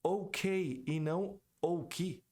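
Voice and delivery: ok said very slowly twice to contrast; ok, slow demo. Shown as a demonstration. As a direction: drag out both ok. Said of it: "por isso você diz".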